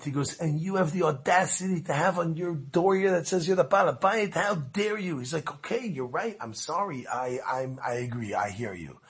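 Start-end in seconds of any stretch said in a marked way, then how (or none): 0.4-5.2 high-pitched mock scolding; indignant. Visitor scolding the boss over his door sign, indignant. 5.5-9.0 soft, sheepish retold apology; a little embarrassed. Boss conceding to the visitor, softly embarrassed. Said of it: "He was a little bit embarrassed now".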